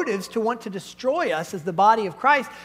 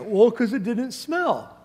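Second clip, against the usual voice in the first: sheepish excuse; slower than usual. Retold or imitated. Sheepish kid excusing himself.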